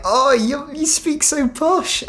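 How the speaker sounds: high, drawn-out mock teasing; mocking imitation. Locals mocking a posh Adelaide accent, high mocking imitation. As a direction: send up the teaser in a high voice. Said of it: "and be like".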